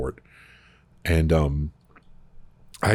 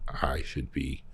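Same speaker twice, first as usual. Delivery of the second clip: whispered to himself; 2 semitones lower, 8 dB quieter, much slower than usual. Retold or imitated. Remembering his own thought, whispered to himself. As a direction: breathe it as a private thought.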